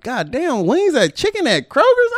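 high, slow disbelieving groan; exasperated rant, pitch way up; exasperated outburst. Retold or imitated. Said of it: "I'm like".

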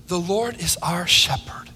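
a soft, intimate whisper to the congregation; hushed whisper. Real, not acted. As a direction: whisper it like a secret you treasure. Hushed declaration to church.

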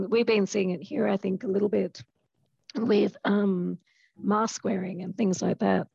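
hoarse, strained voice; losing voice. Real, not acted. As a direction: speak through a worn-out throat. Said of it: "sorry, losing my voice".

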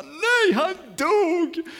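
very high, loud wail of protest; hammed-up shocked shout; dismayed outcry. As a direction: cry out like a child whose hero just died. Child's reaction to hero dying.

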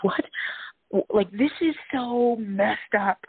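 hushed, slow stunned whisper; watching her drive up, whispered disbelief. Retold or imitated. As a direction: breathe it out in shock. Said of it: "I'm like".

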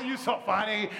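laughing you so funny; laughing brush-off. Retold or imitated. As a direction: laugh off the warning lightly. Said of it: "I was like".

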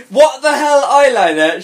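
high, loud, pointed exclamation; whisper-yell read voiced. A narrator's reading. Friend bursting into her room, loud mock whisper-yell. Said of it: "She whispered, yelled".

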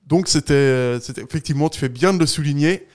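losing his voice, hoarse and strained; a real hoarse voice, nearly gone. Real, not acted. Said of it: "j'ai une extinction de voix".

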